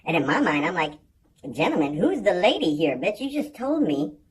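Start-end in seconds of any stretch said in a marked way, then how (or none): 1.5-4.2 loud, incredulous, slowed-down rant; outraged disbelief. Retold or imitated. Comic telling of an inner rant at the gym lady, loud and outraged. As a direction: let it rip, stretch the disbelief.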